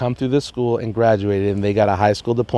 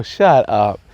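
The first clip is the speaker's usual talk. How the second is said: mock disbelief. Joking disbelief at the lady.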